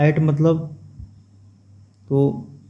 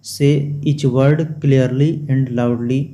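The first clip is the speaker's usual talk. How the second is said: slow, every word separate; slow reading aloud; much slower than usual. Shown as a demonstration. Teacher repeats textbook instruction to class, slow. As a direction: read the line out slowly for the class. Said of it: "rereading instruction slowly".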